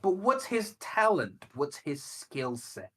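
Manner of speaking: high-pitched, drawn-out incredulous questioning; slow, mock-bewildered challenge; baffled questioning. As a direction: stretch out the question in exasperated disbelief, starting high. Acting out own baffled questioning.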